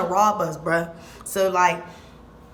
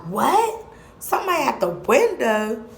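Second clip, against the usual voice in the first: higher, louder alarmed question; startled mom; 4 semitones higher, 4 dB louder than usual. Retold or imitated. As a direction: jump up in disbelief.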